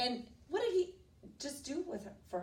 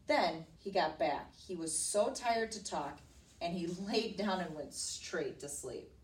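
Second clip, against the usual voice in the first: read-aloud storybook telling; emphatic, measured read to a child; story narration; slower than usual. A narrator's reading. Teacher reading a princess story to a child, narrating expressively.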